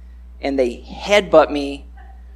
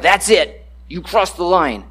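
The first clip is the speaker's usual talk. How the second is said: mock angry warning; 3 semitones higher, 3 dB louder than usual. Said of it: "We're like".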